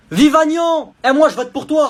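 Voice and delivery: high, loud cheer. Acted. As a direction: cheer him on like a bought supporter. Bribed kids cheer.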